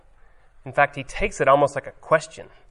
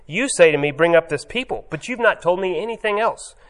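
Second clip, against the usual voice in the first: louder, higher, bold and pushy; impious tone; 3 semitones higher, 4 dB louder than usual. Retold or imitated. Moses boldly tells God what to do, impious tone. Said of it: "this kind of, um, impious tone".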